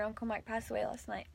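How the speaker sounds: barely voiced, retelling grave news; hushed whisper. Papa passing on Uncle Mike's death, in a whisper. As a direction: whisper it softly as the sad news is passed on.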